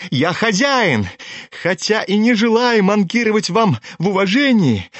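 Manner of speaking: put-on high, dragging drunken protest; spiteful, self-important bluster, pitched high; tipsy, insolent. A narrator's reading. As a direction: assert yourself as master of the house, stretching words. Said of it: "хмельной и озлобленный до нахальства".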